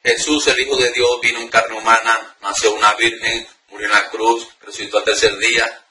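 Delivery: just words, no spirit, recited flat; flat reading. Shown as a demonstration. Preacher demonstrating a lifeless prayer reading, flat. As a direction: read without conviction. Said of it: "no va a leerla así".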